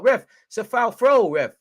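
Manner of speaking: high, loud, drawn-out complaint; high wail of objection; indignant protest. Real, not acted. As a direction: protest to the ref, stretching it out. Protesting to the referee.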